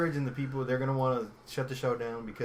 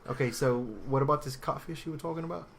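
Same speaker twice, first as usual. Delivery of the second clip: amateur put-on British accent; British accent on a dare. Podcaster asking co-host about catfish, put-on British accent. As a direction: steer back to topic in attempted British. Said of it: "This is my British accent".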